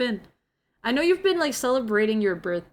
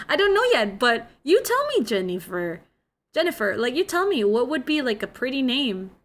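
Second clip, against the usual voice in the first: laughing flustered; 4 semitones higher, 4 dB louder than usual. Retold or imitated. Retelling her flustered reply to child.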